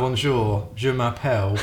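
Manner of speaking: put-on French said with a heavy English accent, like a tourist. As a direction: Bonjour said the way a Brit on holiday would say it. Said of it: "That just sounds like an English person on holiday".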